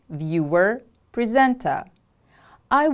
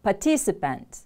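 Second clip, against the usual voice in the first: "Participant" stressed on TIC, falling at the end; stress on second syllable. Shown as a demonstration. Teacher models new word for class, "Participant" stressed on TIC. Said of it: "Stress is on the second syllable".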